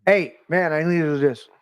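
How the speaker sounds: second, firmer try at getting through; firmer second ask. Retold or imitated. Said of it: "He didn't listen to me".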